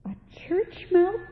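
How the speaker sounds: put-on high, drawn-out children's chorus; chorus it in a high, incredulous voice; chorusing siblings. A narrator's reading. Brothers and sisters echo Johann's choice, chorusing. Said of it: "chorused his brothers and sisters".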